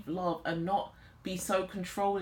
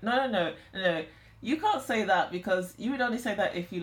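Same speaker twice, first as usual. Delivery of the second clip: raised, louder retold protest; insistent objection; 3 dB louder than usual. Feminine challenging partner who denies loving them, insistent protest. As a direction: cut in and insist, pitched up.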